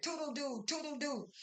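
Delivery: high-pitched mock goodbye; imitated dismissive farewell.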